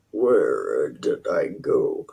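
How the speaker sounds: breathy whispered searching. Real, not acted. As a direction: whisper while losing your place. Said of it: "whispering to herself".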